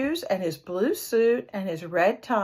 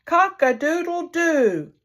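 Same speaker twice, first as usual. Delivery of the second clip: higher, slow trying crow, less like a bird; a man trying to crow like the rooster; man's attempt at crowing; 8 semitones higher, 4 dB louder than usual. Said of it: "Listen to me try it".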